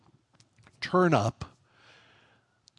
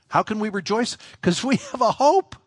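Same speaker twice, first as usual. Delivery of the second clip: much higher and louder, triumphant; fervent exclamation; 9 semitones higher, 5 dB louder than usual. Real, not acted. Preacher answering his own question with a triumphant shout. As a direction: build to a joyful shout.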